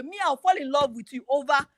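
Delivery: over and over again rising into a loud call; emphatic declaration. Real, not acted. Woman to listeners, calling out her love loudly. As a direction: build the repeat, belting the last again. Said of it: "her own declaration of love".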